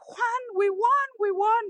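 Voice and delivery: high-pitched joyful cry of victory; retold excited scream. Wife running to tell husband they won, excited high cry. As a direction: shriek the news to your husband, thrilled. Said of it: "I start screaming".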